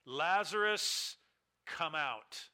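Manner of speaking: a drawn-out, loud call of the name, then a firm come out; loud command. Acted. Preacher voicing Jesus calling into the tomb, loud drawn-out command. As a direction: call the dead man out with full authority. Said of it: "he cried out with a loud voice".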